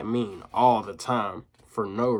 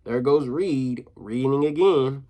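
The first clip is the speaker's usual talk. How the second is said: slow taunting; slower than usual. Retold or imitated. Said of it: "People always say to me".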